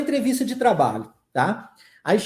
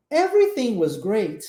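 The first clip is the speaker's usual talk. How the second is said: "Everything was great" rising, then hold a pause; pause after great. Shown as a demonstration. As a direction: stop after "great" before going on. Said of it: "Pausa, viu?". ("Everything was great" subindo, com pausa depois)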